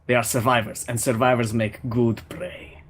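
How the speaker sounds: lightly voiced Russian warrior, proud; a hint of a Russian accent, haughty hunter; mild Russian accent, disdainful Draken. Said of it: "I'll just do a Russian accent".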